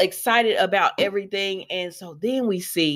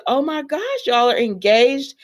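retold excitement; 5 semitones higher than usual. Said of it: "so she's excited".

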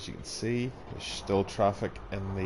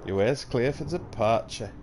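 mock Bolton; 4 semitones higher, 5 dB louder than usual. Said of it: "Oh, she's a Bolton lass".

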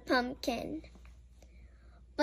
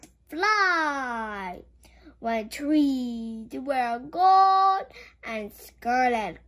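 poem reading; slower than usual. Acted. Reads poem in book.

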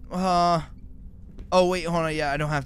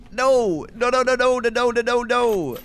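panicked no's; 8 semitones higher, 4 dB louder than usual. Real, not acted. Panicking after the scare.

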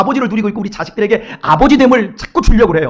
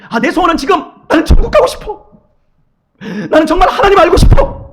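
higher, eager pious voice; pious wish; 7 semitones higher than usual. Retold or imitated. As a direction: say it like an earnest believer, half laughing. (높고 들뜬 목소리로 신실한 신자처럼)

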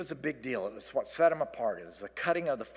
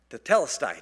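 triumphant; 10 dB louder than usual. Real, not acted. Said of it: "Got it out".

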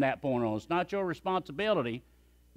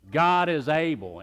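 louder and slower, GOD leaned on; louder, slower declaration; 5 dB louder, slower than usual. Shown as a demonstration. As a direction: proclaim it bigger, drawn out. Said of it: "Can we do it again?".

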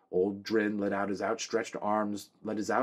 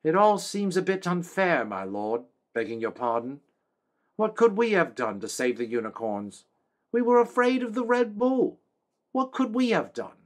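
high, raised voice of a middle-aged village woman; spirited woman; 9 semitones higher, 5 dB louder than usual. A narrator's reading. A village woman protests to the king, spirited and high. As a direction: plead your case with spirit, pitched high. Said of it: "said with some spirit".

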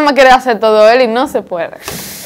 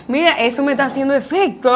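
laughing; 7 dB quieter than usual. Real, not acted. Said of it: "Mucha risa".

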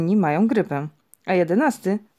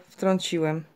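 usual speaking voice

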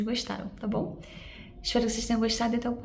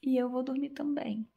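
whispering; 2 semitones higher, 6 dB quieter than usual. Real, not acted. Bedtime, whispering to camera.

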